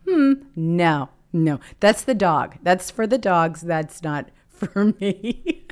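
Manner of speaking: amused, emphatic no; laughing denial. Retold or imitated. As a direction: brush it off with a laugh.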